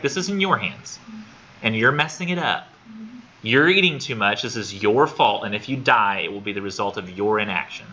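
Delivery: laying into her. Retold or imitated. Doctor blaming his patient for her weight, laying into her. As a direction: retell a tough-love doctor driving the blame home. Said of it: "he's laying into her thick".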